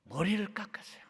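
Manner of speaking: hushed whispered aside; confiding whisper. Real, not acted. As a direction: say it under the breath. Hushed remark on Paul.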